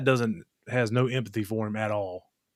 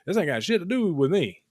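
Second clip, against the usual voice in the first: emphatic retort; 7 semitones higher than usual. Retold or imitated. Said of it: "I was like".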